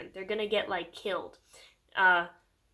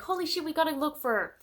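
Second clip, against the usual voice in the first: alarmed crowd; 7 semitones higher, faster than usual. Retold or imitated. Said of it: "everybody's like".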